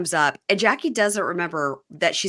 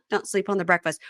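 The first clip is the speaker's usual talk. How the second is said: laughing. Shown as a demonstration. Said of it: "Ah, get it?".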